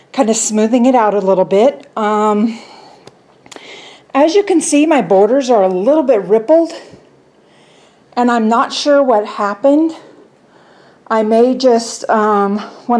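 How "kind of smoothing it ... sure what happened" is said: breathless, talking while winded; out of breath. Real, not acted. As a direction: still catching her breath. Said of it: "I'm out of breath".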